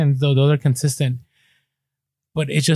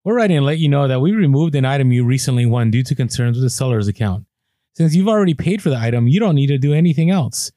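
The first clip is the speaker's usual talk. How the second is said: reading the email. Retold or imitated. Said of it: "you get this email that says".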